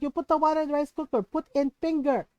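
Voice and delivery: brisk mock-scolding instructions; exasperated mom. Mom teaching daughter to measure rice, exasperated. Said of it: "And my mom goes".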